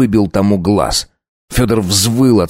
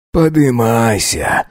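pained pity; 3 semitones higher, slower than usual. Acted. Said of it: "с жалостью и болью в голосе".

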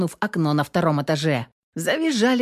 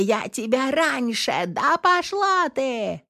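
slow, higher, slurred screaming fight; drunken brawl yelling; 7 semitones higher, slower than usual. A narrator's reading. Balcony girl screaming at her rival, drunken rage. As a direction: hurl abuse at the other girl. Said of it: "переорала всех негодующих".

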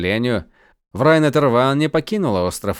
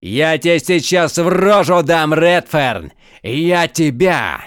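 loud, higher, sputtering; furious threat; 5 semitones higher, 5 dB louder, slower than usual. Acted. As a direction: lunge at him with words. Count limps at prisoner threatening.

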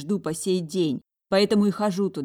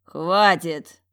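louder barked command; 8 dB louder than usual. A narrator's reading. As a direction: snap to silence the table. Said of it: "рявкнул Орм". (рявкая, громко)

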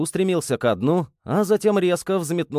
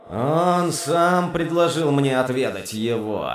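slow, mocking demon voice. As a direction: tease him with the answer. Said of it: "с издевательской интонацией".

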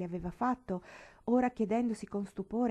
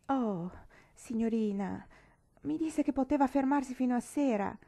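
higher and louder, crying it out; cheeky cry; 6 semitones higher, 4 dB louder than usual. A narrator's reading. Nancy to Mr Weston, insisting he can stay, crying out. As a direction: cry it out boldly at him. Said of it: "gridò la donna impertinente".

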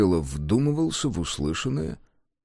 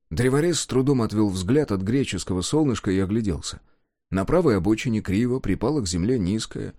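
usual speaking voice

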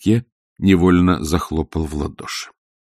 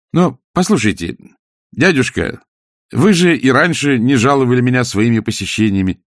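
higher, insistent appeal; pleading nephew; 6 semitones higher than usual. A narrator's reading. Nephew trying to keep uncle talking, pleading. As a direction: reason with him earnestly.

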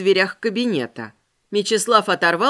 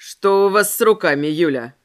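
man's voice; 5 semitones lower, 4 dB louder than usual. Acted. Ramirez questions Yulia.

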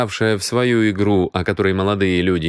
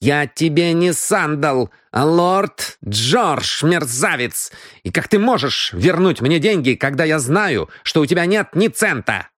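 higher-pitched, haughty rebuke; indignant rebuke; 7 semitones higher than usual. Acted. Lord corrects and rebukes the penniless cheat, indignant. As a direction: rebuke him, drawing out the title.

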